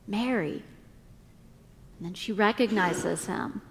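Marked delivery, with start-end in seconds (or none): 0.1-0.6 a touch of tenderness, spoken gently; tender. A narrator's reading. Jesus speaking Mary's name at the tomb, tender. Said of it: "tender and toned just to her".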